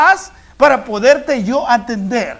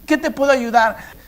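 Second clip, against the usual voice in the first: tender voice of God. Acted. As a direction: coax gently like a loving father. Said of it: "El Señor dice".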